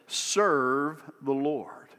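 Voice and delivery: slow, hushed whisper; slow whispered "Serve the Lord". Real, not acted. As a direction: let the words fall to a whisper. Pastor repeats the key phrase.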